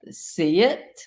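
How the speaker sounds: Southern drawl turning "sit" into two syllables, "see it". Shown as a demonstration. Trainer shows how a Southern owner tells the dog to sit. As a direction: stretch the Southern vowel so "see it" sounds like a question. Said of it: "Southern drawl".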